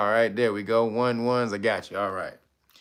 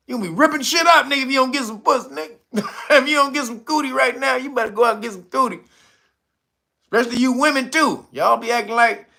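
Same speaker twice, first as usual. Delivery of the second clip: rapid, higher-pitched riff; fast excited rant; 5 semitones higher, much faster than usual. Real, not acted. Hyping up his stream chat, fast and excited. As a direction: rattle it off fast and worked up.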